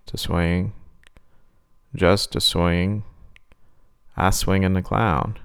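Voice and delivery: drawn out like a sinister clown; creepy clown. Acted. Clown voice, slow.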